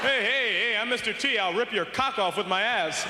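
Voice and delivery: loud tough-guy bark; toy's tough-guy catchphrase, loud. Acted. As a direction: play a loud action hero. Mister T toy voice.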